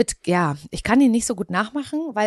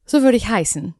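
Mecklenburg accent; 3 semitones higher, 6 dB louder than usual. Shown as a demonstration. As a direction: repeat it long and broad, northern style.

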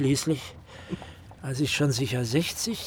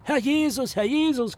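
high, hammed-up maid's shriek; imitated screeching maid; mock shriek; 8 semitones higher than usual. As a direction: squeal it like a shocked maid. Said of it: "kreischte die Magd".

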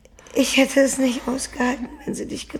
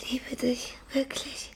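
whisper; 7 dB quieter than usual. Acted. Dying Bones to Maggie.

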